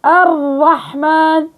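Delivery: الرحمن with the ra shut tight, very slow; stopped ra in word. Shown as a demonstration. Teacher demonstrating a wrong closed ra in a word. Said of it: "سكرت مخرجها".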